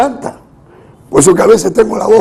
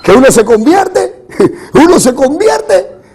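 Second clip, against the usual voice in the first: emphatic sermon cadence; preaching. Real, not acted. Preacher assures congregation of victory despite illness, preaching. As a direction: proclaim it to the congregation with force.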